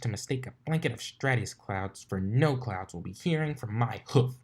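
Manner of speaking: lightly voiced tomboyish pegasus, annoyed; a hint of a cocky flyer grumbling; irritated sporty pony voice; Rainbow Dash voice.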